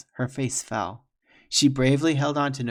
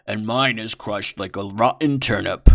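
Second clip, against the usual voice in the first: lovestruck brother; 8 dB louder than usual. Acted. Brother swoons too.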